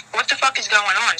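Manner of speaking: baffled, fed-up quote; retold exasperated demand. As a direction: replay demanding an explanation from parents. Retells confronting mumbling parents.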